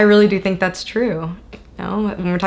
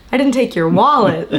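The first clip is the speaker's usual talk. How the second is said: laughing quote; 3 semitones higher, 5 dB louder than usual. Real, not acted. Laughing echo of the wallet joke.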